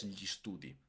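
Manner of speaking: "studi" with a short, unstressed final i, STU-di; short single I. Shown as a demonstration. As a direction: clip the last i of "studi" quickly. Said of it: "es muy rápida la pronuncia". ("studi" con i final breve y átona, STU-di)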